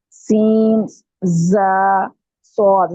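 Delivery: सीन, जा, स्वाद with a forceful, drawn-out whistling hiss; firm whistling sibilants. Shown as a demonstration. Teacher models the letters for a student, firm whistling sibilants. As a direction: press hard on the opening sounds of सीन, जा, स्वाद. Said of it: "सख्ती के, यानी आपका जोर लगेगा".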